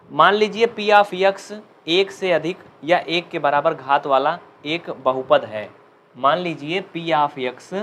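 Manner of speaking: slow, word by word, for students to write; slow dictation. Shown as a demonstration. Teacher dictating the theorem to students, slow and clear. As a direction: dictate each phrase slowly and clearly. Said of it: "आराम आराम से बोलूँगा".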